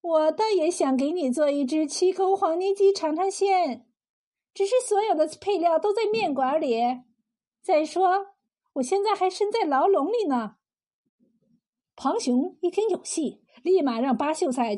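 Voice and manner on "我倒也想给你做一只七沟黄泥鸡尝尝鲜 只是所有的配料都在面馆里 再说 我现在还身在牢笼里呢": higher-pitched, plaintive woman's voice. Acted. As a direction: complain with a touch of reproach, pitched up. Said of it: "柳三娘幽怨地说道". (略带幽怨地高声诉说)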